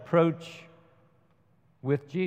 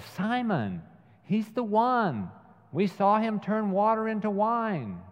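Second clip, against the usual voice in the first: eager insistence; 8 semitones higher than usual. Retold or imitated. John eagerly insists on the Messiah.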